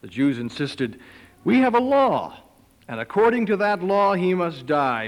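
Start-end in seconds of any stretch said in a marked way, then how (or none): 1.4-5.1 1 insistent crowd. Acted. Jews insisting to Pilate.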